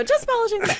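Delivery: high, embarrassed excuse; sheepish girl. Retold or imitated. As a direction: squeak it out sheepishly. Repeating the line in character.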